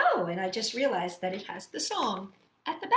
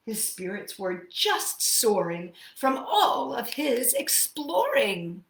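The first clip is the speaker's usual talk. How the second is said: lilting rhyming read-aloud; story reading; slower than usual. A narrator's reading. Teacher reading the bear's rhyming verses to children, lilting. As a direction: savour each rhyme for the kids.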